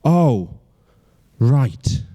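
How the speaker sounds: halting acted letdown, with a pause; mildly disappointed. Girlfriend learns he is not in town, mildly disappointed. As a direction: let a touch of disappointment show between words. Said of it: "so she sounds disappointed".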